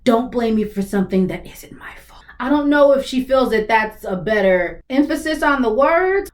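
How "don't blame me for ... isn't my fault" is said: whispered imitation of Ellie. Reactor imitating Ellie's line, whispered. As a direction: copy her dropped tone in a whisper. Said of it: "her tone goes down".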